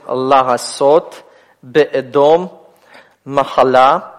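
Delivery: «лагасот», «беэдом», «махала» slowly, each syllable distinct; careful teacher's reading of «лагасот», «беэдом», «махала», syllables separated; syllable-by-syllable examples. Shown as a demonstration. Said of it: "первый слог открытый".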